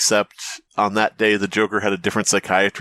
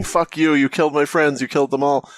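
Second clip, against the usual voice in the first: higher, mild mock yell; retold yelling; 5 semitones higher than usual. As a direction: quote a yell without really yelling. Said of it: "yelling at the ceiling".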